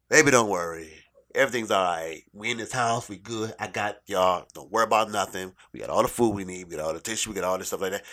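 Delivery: acted confident reassurance; reassuring parent. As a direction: comfort the child like a parent in control. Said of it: "makes them feel comfortable and confident".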